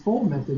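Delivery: "foil" said quickly as "fole"; Southern pronunciation. Shown as a demonstration. Teacher announcing the method to class, Southern "fole". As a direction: drop the glide in "foil", like "fole". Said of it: "I said it the way that I say it".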